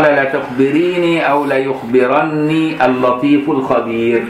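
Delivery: slow, deliberate classical reading; slow recitation. Acted. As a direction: read the warning slowly, word by word. قال.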